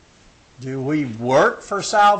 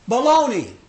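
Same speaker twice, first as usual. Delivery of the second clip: scoffing "Baloney", higher; mock scoffing Paul; dismissive; 5 semitones higher, 3 dB louder than usual. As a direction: brush it off with scorn. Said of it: "Paul comes along and says".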